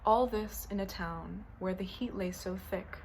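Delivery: deliberate recital, pausing between short lines; poem reading. Acted. Poet reading haikus about a grandmother, measured recital. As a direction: let each haiku line stand alone. Reads haiku series aloud.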